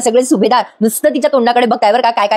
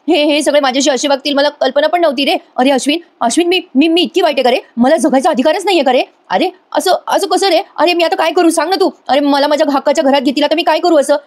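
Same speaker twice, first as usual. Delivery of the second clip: higher, hammed-up whiny lament; a retold crocodile-tears whine, raised in pitch; mock tearful pleading; 4 semitones higher than usual. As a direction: play a fake sob story, pitched up and pleading. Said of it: "Priya रडायला लागते आणि म्हणते".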